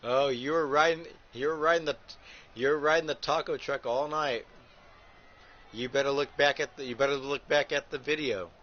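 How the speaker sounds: loud ribbing taunt at the wrestler; mock taunting call-out. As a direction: call him out across the ring, teasing. Calling out the wrestler Raven.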